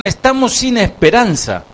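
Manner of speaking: high-pitched, preached cry of hopelessness; acted despair. Israelites trapped before the Egyptians, acted desperate cry. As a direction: voice the trapped people's desperation, slowing at the end. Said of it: "Ellos decían".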